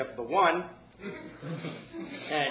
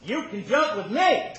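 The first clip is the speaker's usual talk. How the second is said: slow, raised-voice pronouncement; instructor's verdict; 5 semitones higher, 5 dB louder, slower than usual. Retold or imitated. Instructor to the man who can't jump, slow and emphatic. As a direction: declare it slowly, louder and higher, as the instructor.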